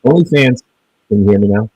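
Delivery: muddy, cutting-out audio; underwater gurgling voice. Real, not acted. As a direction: speak through a failing mic underwater. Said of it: "you sound like you're underwater".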